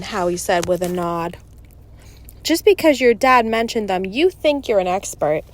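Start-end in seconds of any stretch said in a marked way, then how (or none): 2.4-5.4 lightly acted challenge, blurted out; blurted jab at a friend; blurted retort. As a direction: blurt it out, a little louder and higher. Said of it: "Eddie blurted".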